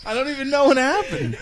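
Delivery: high voice squeezed by real laughter; helpless laughing. Real, not acted. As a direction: barely get it out for laughing. Helpless laughter after choking.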